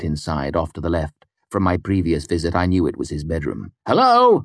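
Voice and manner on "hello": high, loud, questioning hello; shouted call. A narrator's reading. Hero calling into a smoke-filled room, shouted. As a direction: call into the smoky rooms, bold but concerned. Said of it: "I shouted".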